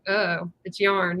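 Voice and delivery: slow, flat-toned dismissal of "yarn"; dismissive. Retold or imitated. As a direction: say "it's yarn" like it's nothing, slowly. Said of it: "they're just like".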